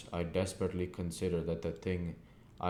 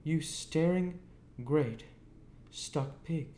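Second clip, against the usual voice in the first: scornful insult; 10 semitones higher, slower than usual. A narrator's reading. Sister insults Joe.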